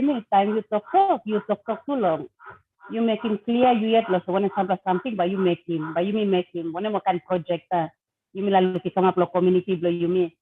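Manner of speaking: speaking Tok Pisin Pidgin. Real, not acted. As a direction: Papua New Guinea Pidgin. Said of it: "say something in, in Pidgin to our people first".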